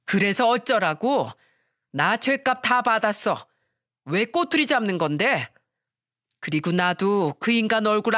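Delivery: a touch of brazen, defiant yelling; 뻔뻔한 외침. Acted. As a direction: shameless mother-in-law, lightly voiced. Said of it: "뻔뻔한 목소리로 소리치는 겁니다". (뻔뻔하게 가볍게 소리치듯)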